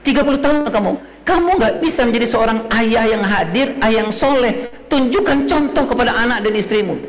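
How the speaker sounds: replaying a father's lecture with a touch of anger; retold angry lecture. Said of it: "waktu pertama sekali saya emosi". (omelan ayah yang agak emosi kepada anaknya)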